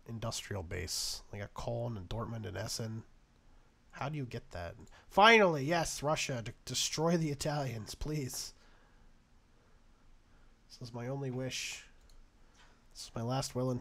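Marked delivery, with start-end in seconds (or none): 5.1-8.5 relieved cheer. Real, not acted. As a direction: cheer it out at last. Ally finally attacks.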